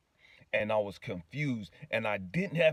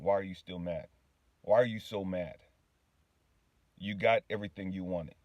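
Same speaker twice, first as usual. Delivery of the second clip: lightly voiced God, lower and unhurried; God's calm question; 4 semitones lower than usual. God questioning the man while he drives, calm and low. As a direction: ask it evenly, a touch lower. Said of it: "he asked me a question".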